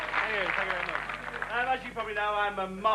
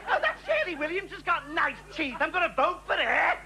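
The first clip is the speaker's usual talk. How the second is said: higher, droning bore voice; mock bore; 5 semitones higher than usual. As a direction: play the pompous idiot next door. Impersonating bores.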